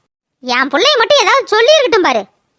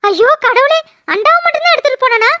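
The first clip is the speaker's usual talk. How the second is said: higher, fast, worried questions; alarmed; 3 semitones higher than usual. Acted. Wife hearing the pot was stolen, alarmed and fast.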